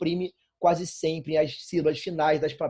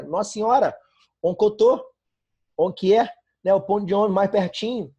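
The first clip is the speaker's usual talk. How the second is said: louder, higher Minas Gerais dialect demo; mineirês accent; 5 semitones higher, 6 dB louder than usual. Shown as a demonstration. Teacher reading a comic's phrasebook to students, in mineirês accent. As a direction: run the words together like a Mineiro, louder. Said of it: "Português mineirês tem uma seção de frases úteis".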